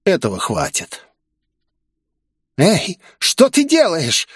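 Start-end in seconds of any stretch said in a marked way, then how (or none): 2.6-4.3 high, slow frightened squeak. Acted. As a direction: squeak it out in sudden fear. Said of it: "испуганно пискнула она". (испуганный писк, высоко и медленно)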